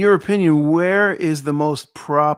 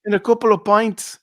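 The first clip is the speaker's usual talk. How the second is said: higher mock Scouse; Liverpool accent attempt; 5 semitones higher than usual. Host adding to a pub invitation, mock Liverpool accent. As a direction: keep up the playful Liverpudlian act. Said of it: "in a Liverpool accent".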